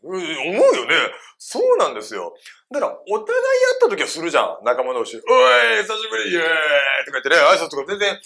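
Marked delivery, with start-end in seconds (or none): 5.2-6.4 hammed-up "long time no see" cheer; rowdy greeting between mates. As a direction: hail an old pal boisterously. Acting out friends greeting each other.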